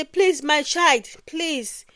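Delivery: slow, soft, gentle plea; calm, polite coaxing; calm begging. Acted. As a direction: beg a child politely, drawing the words out. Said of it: "in a very calmly voice".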